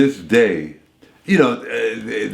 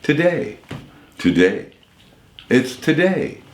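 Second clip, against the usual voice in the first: high announcer tries at today; repeated announcer takes; 4 semitones higher than usual. Retold or imitated. Voice actor trying take after take of today. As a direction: keep hunting for the right today. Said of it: "over fifty some takes of saying".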